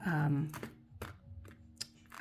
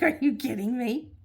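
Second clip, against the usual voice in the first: retold disbelief, pitch up and louder; incredulous; 7 semitones higher, 6 dB louder than usual. Telling husband the show was famous, incredulous. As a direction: act stunned he doesn't know the song.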